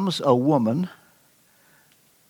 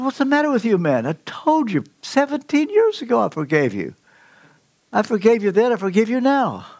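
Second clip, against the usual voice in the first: Joseph, moved; 7 semitones higher than usual. Acted. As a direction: voice Joseph, high and earnest, almost in tears. Joseph voiced in story.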